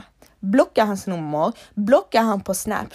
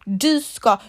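scripted plea to sister; 3 dB louder than usual. Pretend. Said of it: "Säg så här".

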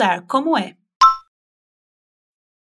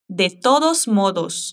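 De todos modos said slowly and clearly; slow model; 4 semitones lower, slower than usual. Shown as a demonstration. Teacher slowly models the phrase for the student to repeat. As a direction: spell the phrase out at half speed. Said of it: "é assim, repete".

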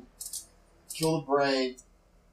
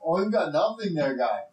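flustered dwarf; 3 semitones higher than usual. Acted. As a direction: plead poverty in a pitched-up dwarf voice. Game master plays flustered dwarf refusing players.

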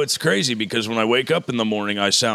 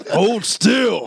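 calling out; 10 semitones higher, 3 dB louder than usual. Retold or imitated. Voicing himself x-raying a patient.

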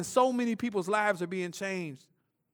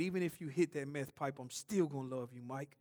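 tender voice of God; 5 semitones lower, 11 dB quieter than usual. Retold or imitated. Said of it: "God said".

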